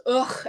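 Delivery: imitated grunt of reluctance; mock put-upon "ugh"; exasperated ugh. Mentor finally gives in to taking the letter, reluctant grunt. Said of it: "finally he goes".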